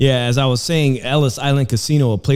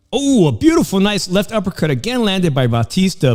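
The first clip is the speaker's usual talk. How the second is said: excited; 5 semitones higher, 4 dB louder than usual. Real, not acted. Live fight commentary, big punch.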